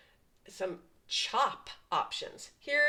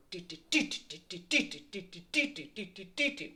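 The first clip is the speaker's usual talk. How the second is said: drum imitation; 4 dB quieter, faster than usual. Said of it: "the drummer is probably back there going".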